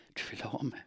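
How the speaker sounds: soft inviting whisper; seductive whisper. Acted. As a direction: tempt him in a hush. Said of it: "viskade hon".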